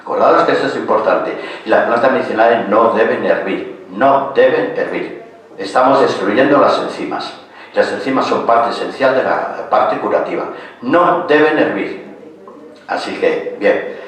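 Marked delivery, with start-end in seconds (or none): 2.7-5.2 firm, measured "no deben hervir"; emphatic rule. Real, not acted. Stresses a rule by repeating. 10.8-12.2 slow, deliberate "No deben hervir"; emphatic rule. Real, not acted.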